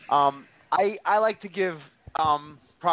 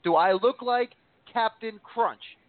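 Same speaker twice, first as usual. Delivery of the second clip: quoting a funny line; 4 semitones higher, slower than usual. Retold or imitated. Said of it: "when he said".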